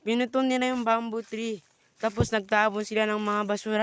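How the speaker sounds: upset at neighbours for trashing the park; indignant complaint. Real, not acted. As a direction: call out the people who cut the bamboo. Complaining about vandalized park.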